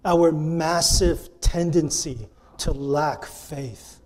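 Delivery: "massive" drawn out slowly and firmly; slow right down to underline "massive"; stress on massive. Shown as a demonstration. Preacher repeating his point for emphasis, stress on "massive". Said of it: "I emphasize that word massive".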